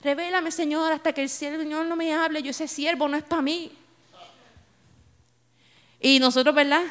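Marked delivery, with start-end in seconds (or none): 0.0-3.7 soft mock-pious praying; half-mocking hushed plea; mocking youthful prayer. Preacher mimicking her younger self praying, softly and mockingly. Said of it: "eso pasaba mucho en nuestros tiempos".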